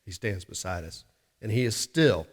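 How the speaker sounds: a hushed reassurance to the flock. Acted. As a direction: lean in and say it almost under the breath. Preacher drops to an intimate hush.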